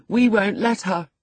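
put-on high, childish refusal; petulant boy. A narrator's reading. Boy tells the housekeeper of his captive, petulant. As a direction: refuse like a spoilt, whining boy.

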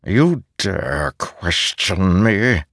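soft growl. Acted. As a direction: growl it softly, warning. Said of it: "Ishar growled softly".

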